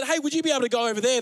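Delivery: quick, gentle, overly polite ask; mock-courteous miner asking a horse; polite request. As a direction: sweetly ask the horse to move. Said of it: "treating them nicely".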